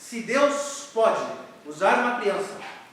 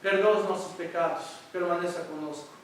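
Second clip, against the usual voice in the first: earnest prayer; 2 semitones lower than usual. Real, not acted. Pastor leading the church in prayer, reverent. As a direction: pray sincerely for the congregation.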